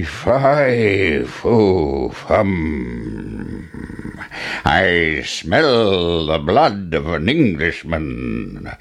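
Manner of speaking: slow, menacing giant chant, each word dragged out. A narrator's reading. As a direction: growl it slowly like a hungry giant.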